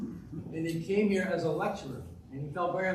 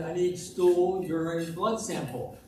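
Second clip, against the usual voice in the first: slow, slightly raised repeat; a little louder; slower than usual. Acted. Doctor repeating himself for a patient who missed it, a little louder. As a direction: repeat it slowly, a bit louder. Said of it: "he said a little louder".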